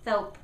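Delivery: "Thope" with a TH instead of S; tongue out for "Thope"; lisped S. Shown as a demonstration. Teacher repeating the lisped "Thope". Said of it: "when they say S like this".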